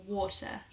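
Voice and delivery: "water" with an "aw" vowel and crisp T; British "water", no final R; British O sound. Shown as a demonstration. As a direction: say "water" the British way, "waw-tuh". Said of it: "we use the O sound".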